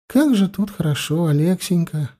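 wife sighing with joy at the river; delighted exclamation. Acted. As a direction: Katarina to her husband, lightly delighted. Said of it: "воскликнула Катарина".

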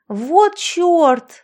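high, loud panicked yell; yelling in alarm. A narrator's reading. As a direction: cry out in sudden alarm. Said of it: "завопила я".

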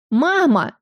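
high nasal call to mother; nasal whine. A narrator's reading. Layla calls to her mother, nasal and whiny. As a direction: whine it through the nose like a spoiled girl. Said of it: "Гнусавый голос Лайлы".

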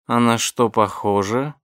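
slow, breathy seductive purr; breathy vintage purr. Acted. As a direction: purr it out slowly, teasing. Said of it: "промурлыкала Денника".

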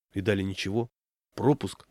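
usual speaking voice

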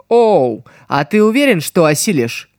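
scornful, mocking question; contemptuous smirk. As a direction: sneer it out, teasing. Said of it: "презрительно усмехнулась девушка". (презрительная усмешка)

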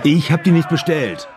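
shouted protest. Acted.

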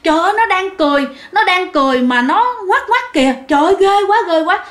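very fast, high frightened shrieking; panicked. Retold or imitated. Mason losing his nerve at the tree, fast high panic. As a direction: lose all control, gabbling in terror. Mất bình tĩnh.

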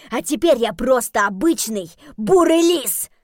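Jeremy ranting about becoming a brown fox; bitter rant. Acted. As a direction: vent your bitterness loudly. Jeremy rants about being fox.

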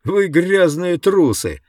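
slow, loud shouted insult. Acted. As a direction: hurl it with scorn. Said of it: "крикнул кто-то".

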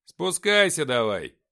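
loud, drawn-out call. A narrator's reading. Narrator telling Nikita to climb down, calling out. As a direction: call slowly up to someone in a tree.

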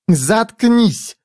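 sharp, high snap of a command; snapped order. A narrator's reading. Jiz snaps at Foyle to shut up, sharp. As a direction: cut him off sharply. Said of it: "бросила Джиз".

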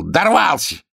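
high, loud capricious king; whiny king. Acted. King inspecting the healer's knees and teeth, high and loud. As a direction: play a petty tyrant poking at his healer.

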